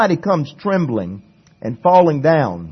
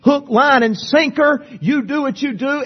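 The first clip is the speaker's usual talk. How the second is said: tempting devil; 9 semitones higher than usual. Retold or imitated. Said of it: "The devil is saying".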